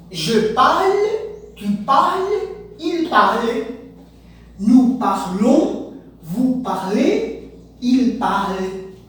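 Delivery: "Je parle" to "il parle" read slowly and clearly in French; French conjugation drill. Shown as a demonstration. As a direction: recite "parle", "parlons", "parlez" slowly for the class. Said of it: "mesma pronúncia". (conjugação francesa lenta e bem articulada)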